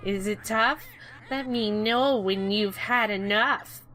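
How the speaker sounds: mock taunt. Quoting game taunt.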